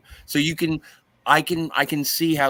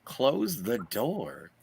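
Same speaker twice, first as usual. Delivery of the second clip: slow, softer, stretched-out words; drawn-out plea; 6 dB quieter, much slower than usual. Acted. Co-host grumbles at the damn door, drawn out. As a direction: stretch each word out at the screen. Calling out at the cartoon.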